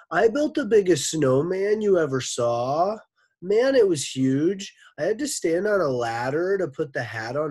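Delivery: freight train voice. Acted. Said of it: "Mac's voice was like a freight train".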